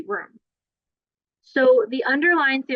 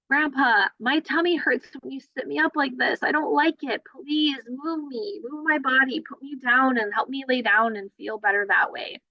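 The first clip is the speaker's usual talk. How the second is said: put-on higher, pleading baby voice; a small child begging, pitched up; 5 semitones higher than usual. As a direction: voice a fussy baby asking grandpa for help. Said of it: "maybe they're saying".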